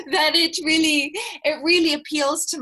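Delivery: laughing. Real, not acted. Talking through laughter.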